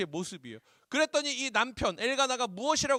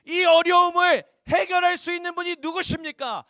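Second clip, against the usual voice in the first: preaching shout; 9 semitones higher, 9 dB louder than usual. Real, not acted.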